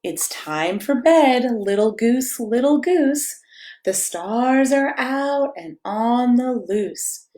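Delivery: slow, gentle bedtime read-aloud; cozy storybook reading; reading to children. A narrator's reading. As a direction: lull a toddler toward sleep. Reads picture book to child.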